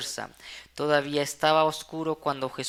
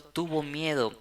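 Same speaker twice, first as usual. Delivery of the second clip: ordinary talk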